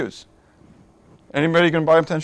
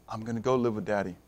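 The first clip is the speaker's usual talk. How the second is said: hushed longing; 8 semitones lower, 11 dB quieter, faster than usual. Acted. Repeats the child's wish more softly.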